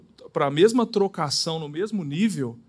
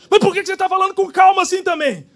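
much higher, louder and fast indignant outburst; exasperated wife; 11 semitones higher, 8 dB louder, faster than usual. Retold or imitated. Wife erupts at her husband's calm tone. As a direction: blow up at his calmness.

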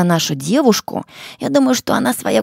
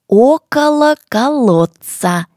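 slow, loud, word by word; slow and clear; 3 semitones higher, 6 dB louder than usual. Shown as a demonstration. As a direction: articulate each sound slowly. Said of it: "Добавляем следующее слово".

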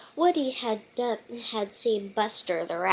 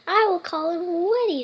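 put-on child's voice; 7 semitones higher, 4 dB louder, faster than usual. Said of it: "said Holly".

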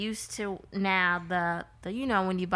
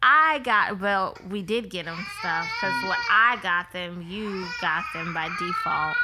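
yelling; 2 semitones higher, 5 dB louder than usual. Real, not acted. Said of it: "Stop yelling at me".

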